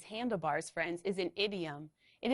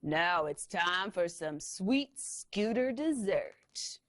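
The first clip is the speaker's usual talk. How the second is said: gloating villain; slower than usual. Acted.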